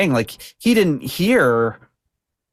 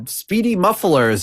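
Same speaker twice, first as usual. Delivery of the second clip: high, slow sign-reading; 6 semitones higher, slower than usual. Retold or imitated. Grandma passing a billboard, slow high read-out. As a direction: read it out slowly in a raised voice.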